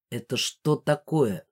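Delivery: low, slow growled demand; slow, menacing low question. A narrator's reading. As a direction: growl it as a stern man. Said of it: "прорычал он".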